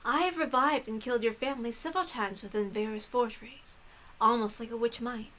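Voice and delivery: soft, composed mysterious writer; a hint of a knowing witch, hushed; quiet witch author. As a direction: speak like a calm witch sharing secrets. Hachijo speaks as a witch.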